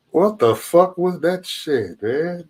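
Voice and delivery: slow stunned what the fuck; drawn-out disbelief. Real, not acted. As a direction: drag every word out in disbelief. Shocked by a caller.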